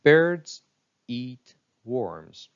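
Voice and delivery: BIRDS hit high and loud, eat worms stressed evenly. Shown as a demonstration. Teacher modelling stress for students to repeat. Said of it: "repeat after each sentence".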